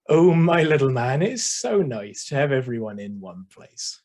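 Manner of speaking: a nan's broad Suffolk lilt; thick Suffolk accent. Acted. Nan talking to her little man at the fireside, thick Suffolk accent. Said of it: "said in her thick Suffolk accent".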